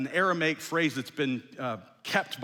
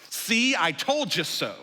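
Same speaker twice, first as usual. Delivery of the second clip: mock gloating, louder and higher; 5 semitones higher, 5 dB louder, slower than usual. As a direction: rub it in their faces, playfully. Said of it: "march her out there".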